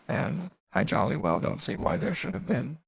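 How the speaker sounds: a mildly defiant, truculent retort. Acted. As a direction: push back at Fanny a little stubbornly. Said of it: "she answered almost truculently".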